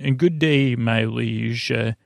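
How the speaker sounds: light imitation of an English accent; half-committed stagey English accent; mock English accent. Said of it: "in this English accent".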